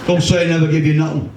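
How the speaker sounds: put-on cheeky Liverpool kid passing the butt; young Scouser accent. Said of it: "young Scousers these days don't seem to talk like the rest of us".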